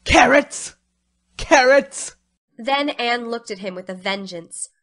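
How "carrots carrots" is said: loud, high stage whisper that cuts through; high, loud and piercing. A narrator's reading. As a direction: pierce the room with a forced, taunting whisper. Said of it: "said in a piercing whisper".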